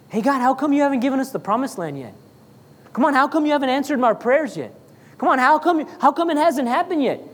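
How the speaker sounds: hurried, mildly whiny complaint to God; impatient prayer. Acted. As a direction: press God with quick, impatient questions. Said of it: "What would his prayers sound like?".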